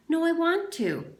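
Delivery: loud, high mock whine; mock insistence. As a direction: shout it like a spoiled kid. Zigzag outbidding in mockery.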